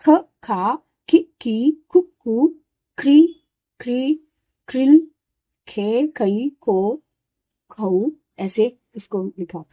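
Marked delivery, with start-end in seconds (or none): 0.0-8.1 ख, खा, खी, खी, खु, खू said one at a time, clearly; syllable by syllable. Shown as a demonstration. Teacher demonstrating how to pronounce each ख syllable, syllable by syllable. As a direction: say each ख form separately, as for beginners. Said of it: "तो इसको उच्चारण करेंगे".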